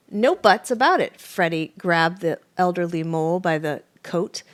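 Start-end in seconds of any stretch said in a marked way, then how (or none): 0.1-1.2 angry. A narrator's reading. Fox bullies the mole.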